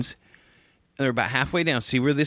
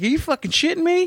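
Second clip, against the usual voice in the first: exasperated disbelief. Retold or imitated. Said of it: "I was like".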